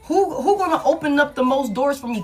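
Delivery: a hint of a demanding Queen of Wands; gold digger voice. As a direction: play the greedy lover shopping for the best offer. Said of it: "Seven of Cups is in reverse".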